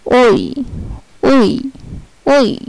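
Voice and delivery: "ওই" repeated as rounded German ö, the pitch climbing; ö sound. Shown as a demonstration. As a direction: model the ö sound for students. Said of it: "ও umlaut-এর".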